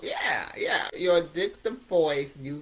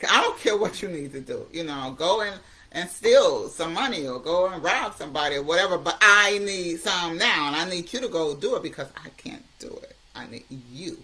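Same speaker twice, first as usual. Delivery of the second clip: demanding addictive voice; 5 dB louder than usual. Retold or imitated. Addiction voice pressing the addict for money, demanding.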